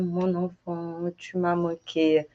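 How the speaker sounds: slow, soft mon enfant; tender to child. Shown as a demonstration. Parent greeting a child at home. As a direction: say it lovingly, slowly. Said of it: "Aí fala assim".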